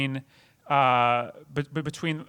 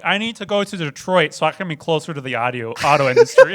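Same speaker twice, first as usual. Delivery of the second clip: Gator quote; 5 dB louder than usual. Retold or imitated. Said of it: "when he's like".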